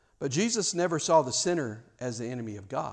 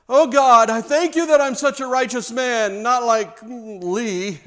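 much higher, loud hammed-up smug prayer, slow at the end; mock self-righteous prayer; 9 semitones higher, 11 dB louder, slower than usual. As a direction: pray like a showy hypocrite pointing someone out.

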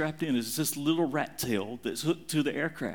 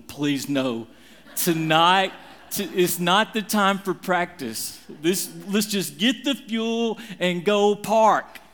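rising, louder protest that builds to a near-shout; pleading protest; 3 semitones higher, 4 dB louder, slower than usual. Retold or imitated. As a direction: beg them to quit practising, getting louder. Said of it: "And I'm going".

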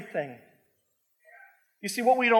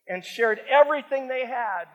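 ringing out everything forcefully; loud emphatic reading; 5 semitones higher, 5 dB louder than usual. Acted. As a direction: proclaim the verse at full voice.

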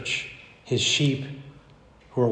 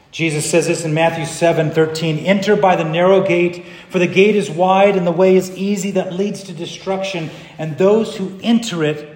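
raised, emphatic verse reading; preaching scripture; 5 semitones higher, 5 dB louder than usual. Real, not acted. Preacher quotes Matthew to the church, forceful reading. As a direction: proclaim the warning to the congregation.

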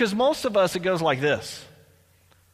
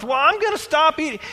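higher, louder whiny excuse voice; mock dieter excuse; 9 semitones higher, 4 dB louder than usual. Preacher mocking a dieter putting off quitting, higher whiny excuse. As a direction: play the dieter putting it off again.

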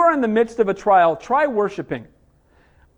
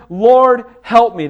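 loud plea, Lord pushed out; loud desperate prayer; pleading cry; 6 dB louder, much slower than usual. Acted. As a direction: throw yourself down and cry for help. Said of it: "she falls down and worships".

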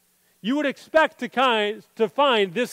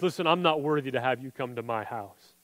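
softer and lower, stress on not; humble quiet plea; 8 semitones lower, 7 dB quieter than usual. Retold or imitated. Centurion telling Jesus he is unworthy, softly humble. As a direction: say it as an unworthy man.

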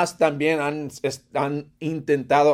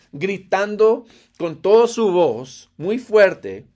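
normal talking voice

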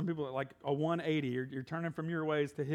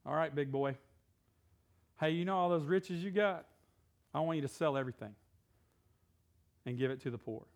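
casual Jesus voice. Retold or imitated. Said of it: "and Jesus is like".

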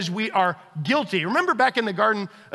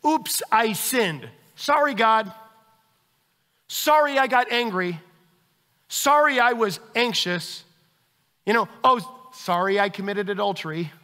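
shallow apology. Retold or imitated. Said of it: "is not just".

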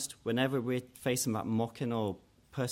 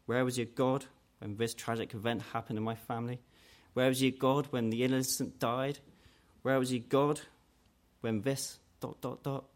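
doubter's challenge; 3 semitones higher than usual. Retold or imitated. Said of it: "a phrase we hear sometimes".

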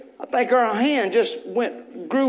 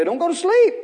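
call and response line; 7 semitones higher than usual. Shown as a demonstration. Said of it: "Look at somebody and say".

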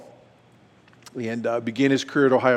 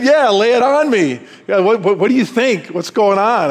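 eager curiosity; 8 semitones higher, 6 dB louder than usual. Retold or imitated. Eager to hear friend's secret.

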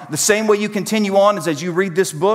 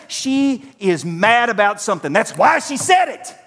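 sulky self-talk; 7 semitones higher than usual. Retold or imitated. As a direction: brood like a suspicious husband. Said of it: "and I would say this".

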